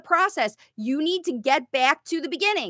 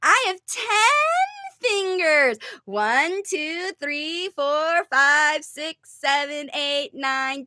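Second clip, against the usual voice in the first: modeling voice. Shown as a demonstration. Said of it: "Language facilitation is".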